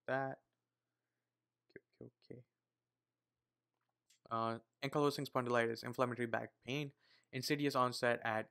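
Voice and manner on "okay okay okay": whispering. Real, not acted. Whispering to herself while studying.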